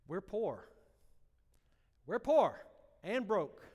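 tearful loud cry of we're poor; retold weeping plea. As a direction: voice breaking, crying out. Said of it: "I'm weeping".

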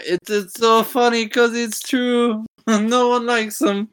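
slow, put-on cartoon voice; slow mock cartoon impression; Family Guy quote. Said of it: "I wanna quote, like, a Family Guy".

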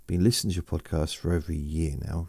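rushed reread of the line; fast. Real, not acted. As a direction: hurry back through the line. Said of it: "I just, just yawned".

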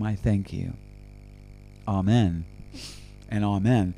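closing prayer. Acted. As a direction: close the prayer gently and reverently.

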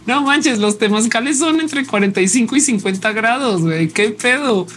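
can't believe what she's hearing; amazed disbelief. Real, not acted. Reacts in disbelief to the temazcal comment.

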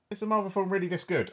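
high-pitched, mildly incredulous self-quote; surprised disbelief. Retold or imitated. Film reviewer recalling their reaction to Endgame, mildly incredulous. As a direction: lift the pitch in mock disbelief.

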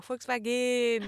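"Volkswagen" drawn out as "Fulksvageen"; slow "Volkswagen" with a long stressed last vowel; imitated foreign pronunciation. Recalling funny encounters, "Volkswagen" slow and foreign-sounding. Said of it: "genauso wie".

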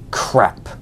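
breathless whispered curse; whispered dismay. Real, not acted. Realizing the pastor was kind all along, whispered dismay. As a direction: let the realization deflate you.

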